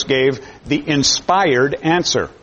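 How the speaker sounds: slow, leaning on the word inspired; inspired stressed and unhurried. Shown as a demonstration. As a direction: draw out inspired and give it weight. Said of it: "with emphasis on the word inspired".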